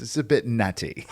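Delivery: slow, lightly voiced Austin Powers line; a hint of the smug movie spy, drawn out; Austin Powers quote. Quoting Austin Powers to his co-host, slow and lightly voiced. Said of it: "line from, uh, Austin Powers when he's drinking his coffee".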